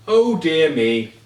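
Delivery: slow, drawn-out dismay; lingering on each word, dismayed; slow dismayed oh dear. A narrator's reading. The doctor hears the sad news, slow dismay.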